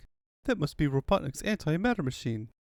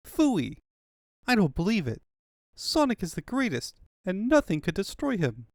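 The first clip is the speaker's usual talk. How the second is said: defiant denial; 6 semitones higher than usual. Acted. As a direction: refuse the news outright. Tails refuses to believe.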